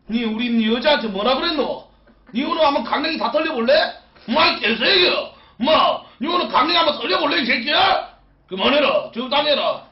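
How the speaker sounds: loud, gruff regional threat; tough Gyeongsang guy. Retold or imitated. Husband reenacting defending his girlfriend, roughly. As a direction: play the protective tough guy. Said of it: "이런 식으로 멋있게".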